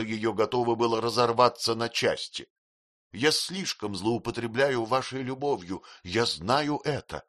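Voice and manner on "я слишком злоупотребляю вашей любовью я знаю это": sobbing. Acted. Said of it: "с рыданием говорила она".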